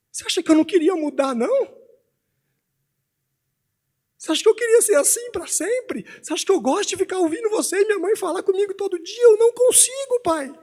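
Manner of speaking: put-on high, anguished child's outburst, building in pitch; desabafo do filho. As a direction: plead as an upset son, climbing to a peak. (desabafo aflito de criança, voz aguda)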